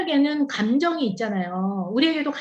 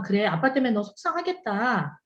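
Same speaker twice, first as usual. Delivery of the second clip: empathetic mom; 3 semitones lower than usual. Retold or imitated. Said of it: "수용적이고 공감해주는 엄마면".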